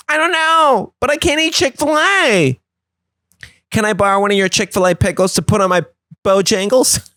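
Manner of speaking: high, quick sly ask; sneaky hypocrite asking a favour; cheeky friend. Retold or imitated. Friend begging Michael for pickles, high and sly. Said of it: "he's like".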